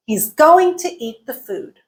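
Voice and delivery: GOING, EAT, FOOD stressed, "to" and "the" reduced; content words stressed. Shown as a demonstration. Teacher reviewing an example, content words stressed. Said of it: "Everything else was reduced".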